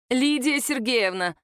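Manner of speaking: slow, ringing call from the doorway. Acted. Nika calls her mother-in-law from the doorway, slow ringing call. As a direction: call her out, bright and drawn out. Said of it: "звенящим голосом позвала она".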